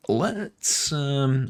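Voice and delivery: muffled behind a hand; hand over mouth. Real, not acted. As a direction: talk through your hand. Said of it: "I shouldn't talk with my hand over my mouth".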